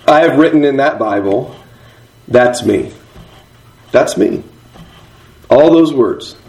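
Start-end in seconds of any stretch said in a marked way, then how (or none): 3.9-4.4 whispered, almost no voice. Shown as a demonstration. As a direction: breathe it out as a private confession. Written note read aloud twice.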